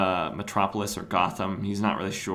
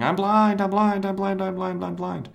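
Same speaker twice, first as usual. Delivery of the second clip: high-pitched panicked wail, repeating; hammed-up panicked cry; mock screaming; 10 semitones higher than usual. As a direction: wail it high on one note, fading as it runs on. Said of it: "who's doing all that screaming".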